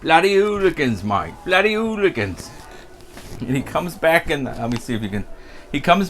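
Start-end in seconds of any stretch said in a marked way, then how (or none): 0.0-2.5 high exasperated landlord mutter; landlord grumbling. Retold or imitated. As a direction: shake your head at the hooligans. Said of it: "the landlord goes to me".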